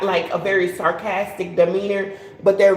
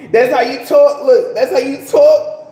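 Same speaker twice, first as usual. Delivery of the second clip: louder, pressing the line home; louder emphatic repeat; 4 semitones higher, 6 dB louder than usual. Shown as a demonstration. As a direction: punch "talk" louder each time. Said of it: "talking like, speaking that way".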